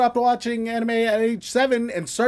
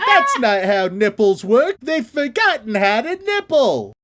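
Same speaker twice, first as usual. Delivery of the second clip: mock voice; 3 dB louder, slower than usual. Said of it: "I'll tell you what they say".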